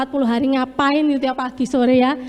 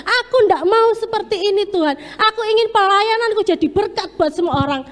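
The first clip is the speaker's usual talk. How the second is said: tearful prayer; 6 semitones higher than usual. Retold or imitated. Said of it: "ketika saya menangis".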